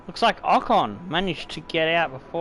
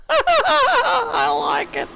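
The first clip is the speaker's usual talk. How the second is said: very high, slow, laughing falsetto; squeaky laughing delight; 5 dB louder, much slower than usual. Real, not acted. Streamer loving the Verstapped pun, squealing with laughter.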